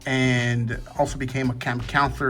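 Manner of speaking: slurred words around a retainer; wearing a retainer. Real, not acted. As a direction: speak with a retainer in. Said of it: "So, sorry, a camp counselor".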